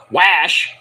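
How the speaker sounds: Wash said the Boston way, open broad vowel; Boston accent. Shown as a demonstration. Vlogger showing the typo as a Boston accent. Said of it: "Like, sounding like you're from Boston".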